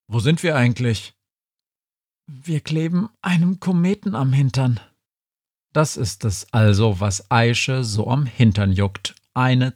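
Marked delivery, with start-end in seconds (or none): none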